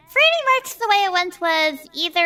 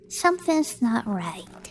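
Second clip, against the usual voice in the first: uneasy murmur; 6 semitones lower, 6 dB quieter, much slower than usual. Acted. Velma uneasy, to herself.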